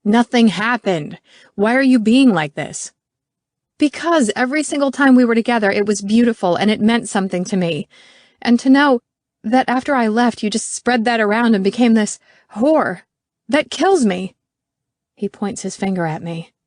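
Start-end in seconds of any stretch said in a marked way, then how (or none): 0.0-2.9 yelling back. Acted. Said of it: "Garrett is yelling back". 3.8-14.3 higher, louder, fast outburst; hurt and angry. Acted.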